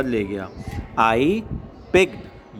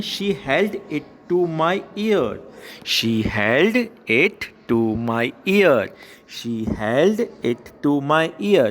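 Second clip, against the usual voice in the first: very slow, word-by-word poem reading; slow read-aloud; much slower than usual. Shown as a demonstration. Teacher reading a poem line to schoolchildren, slow and measured. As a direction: draw out each word for pupils to follow.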